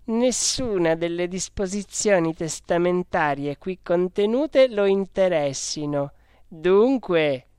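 emphatic, lightly acted sisterly argument; insistent sister. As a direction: quote it pointedly as proof. Sister quotes the letter to prove point.

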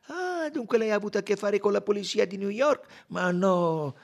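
high, loud exchange; loud, high questioning; animated interrogation. A narrator's reading.

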